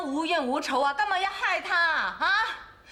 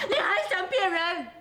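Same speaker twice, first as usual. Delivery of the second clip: tearful accusation; slower than usual. Acted. Wife confronts cheating husband.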